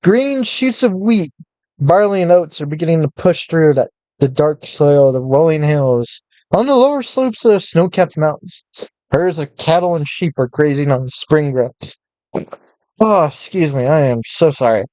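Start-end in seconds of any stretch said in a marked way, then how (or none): 0.0-12.0 measured storyteller read; story narration. A narrator's reading. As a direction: narrate the landscape calmly. Reads game text as narration.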